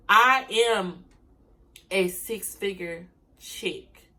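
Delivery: slow, firm, proud declarations; confident affirmations. Shown as a demonstration. Showing viewers how to claim success, slow and firm. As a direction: speak each line as settled fact. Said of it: "That, that's how you talk".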